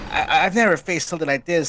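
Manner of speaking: high, alarmed hero voice; worried Sonic. Acted. Sonic facing the tyrant, high and rattled. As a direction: sound out of your depth, high. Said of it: "Sonic's like".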